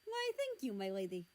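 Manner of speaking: said with a smile. A narrator's reading. Guest thanks the girl at the door, smiling. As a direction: smile through a gallant thank-you. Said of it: "he said with a smile".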